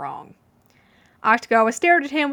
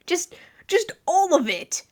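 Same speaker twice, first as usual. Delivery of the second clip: slow, much higher exasperated shout; fed-up coworker yelling; 8 semitones higher, slower than usual. A narrator's reading. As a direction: throw your hands up and yell it. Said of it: "the clearly very exasperated blonde yelled".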